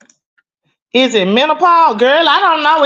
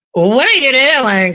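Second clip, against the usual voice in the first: proper friend; 3 dB louder, slower than usual. Retold or imitated. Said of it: "that's how my friends talk".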